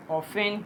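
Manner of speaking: often said as "offen", the t left silent; often with no t sound at all. Shown as a demonstration. Teacher says often with a silent t, as "offen". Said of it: "टी silent होता है".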